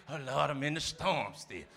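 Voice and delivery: mock whining. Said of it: "I'm still talking like this".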